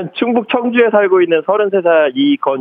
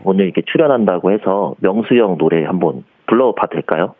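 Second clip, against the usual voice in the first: lower-pitched indie singer voice; Jang Beom-jun impression; 7 semitones lower than usual. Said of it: "장범준 씨 모창하고 성대모사요".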